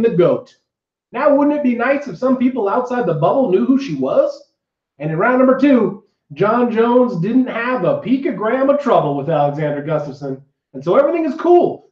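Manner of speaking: podcast intro read. Acted. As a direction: read the show rundown with punchy, wry bounce. Scripted show introduction read.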